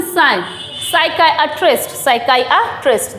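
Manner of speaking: "साइकियाट्रिस्ट" as sai-KAI-uh-trist; careful "साइकियाट्रिस्ट" with long kai; building the word. Shown as a demonstration. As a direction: add "साई" first, then the whole "साइकियाट्रिस्ट". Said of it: "सबसे last में".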